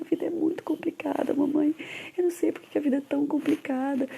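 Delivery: high, childlike tearful voice, a little mock sob in it; imitating son crying. Mother imitates her five-year-old son crying to her about life: high tearful child voice. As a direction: plead like a small boy who thinks life is too hard. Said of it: "dele chorando".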